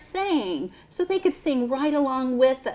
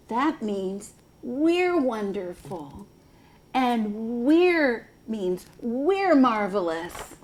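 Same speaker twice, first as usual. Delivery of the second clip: put-on expressive read-aloud for kids; slow, sing-song story reading; storytime voice; slower than usual. Continues reading the book aloud.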